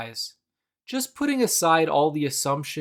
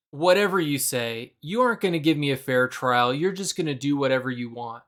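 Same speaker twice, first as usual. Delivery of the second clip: resigned whatever; faster than usual. Retold or imitated. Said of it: "Jesus felt defeated".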